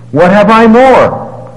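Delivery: anguished lament. Acted. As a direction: let the loss ring out slowly. Micah's lament in scripture.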